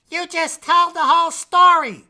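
high, loud indignant protest; Red scolding the narrator for spoiling the story. Acted. Red complains to narrator Jack.

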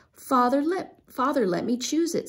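eager. A narrator's reading. Eager boy interrupting.

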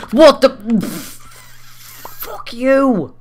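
high, loud mock yell as mum; imagining his mum shouting; imitating mum. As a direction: squeal it like an outraged mother. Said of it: "My mum's gonna probably shout".

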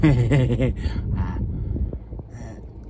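talking with numb mouth; words slurred from numb face. Real, not acted. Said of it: "side of me face is numb".

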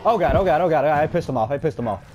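scared babbling that settles; frantic worried gabble; panicky. Real, not acted. Monster angered.

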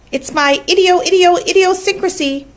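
high voice, repeating syllables; stuttering gander. A narrator's reading. Gander defends his habit to Charlotte, high and stuttering. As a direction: trip over the word like a honking gander. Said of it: "replied the gander".

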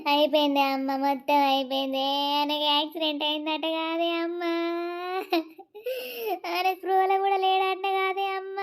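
a touch of tearful wailing to mother; wife tells her mother of the accident, mildly tearful; crying despair. Acted. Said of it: "ఏడవకే, ఏడవకు".

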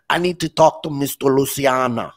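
lightly put-on Italian-American accent; a hint of an Italian accent, quoting a visitor; mock Italian accent asking for Mister Luciano. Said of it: "that have the Italian accent".

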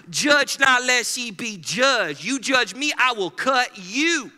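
slow, loud mock tough guy; mock threat. Churchgoer quoting scripture as a loud slow threat.

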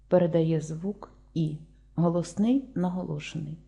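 передає звук spoken slowly, each syllable drawn out; slow it down so pupils can write передає звук; slow careful dictation. Shown as a demonstration. Teacher dictating to the class, slow and even.

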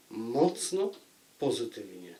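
normal talking voice

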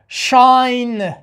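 "شاین" stretched very slowly, falling; "شاین" slow, with a long open vowel; clear pronunciation. Shown as a demonstration. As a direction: draw out "شاین" as one long SHAAIN.

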